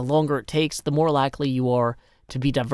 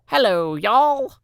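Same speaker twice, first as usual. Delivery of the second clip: mock greeting; 8 semitones higher, 5 dB louder, much slower than usual.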